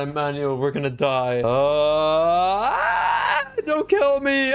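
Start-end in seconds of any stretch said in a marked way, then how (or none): 1.4-4.5 scared cry. Real, not acted. About to fall in game.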